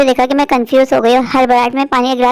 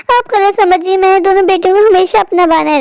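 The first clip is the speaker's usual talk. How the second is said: higher-pitched self-defence; aggrieved protest; 5 semitones higher than usual. Acted. Mother defends treating both daughters equally, aggrieved protest. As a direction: insist plaintively on your innocence.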